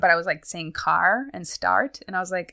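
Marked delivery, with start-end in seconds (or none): 0.7-2.0 car and start with American Rs; American accent. Retold or imitated. Retelling words caught on old videos, American accent. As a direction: sound the Rs as an American would. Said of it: "starting to sound American".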